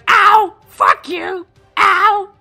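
high, loud yelps of pain; wounded little goblin. Acted. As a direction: yelp and curse like a hurt goblin. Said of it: "He's going".

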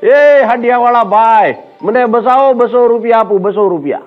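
high calling-out, lightly acted; mock yell. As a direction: imitate a man hollering down from a treetop, without much volume. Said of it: "ઉપરથી રાડ પાડી મુનાએ".

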